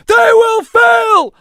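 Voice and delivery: slow, high, full-force scream; screamed ritual reply. A narrator's reading. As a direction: answer the chief with everything. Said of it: "Alam screamed the ritual reply".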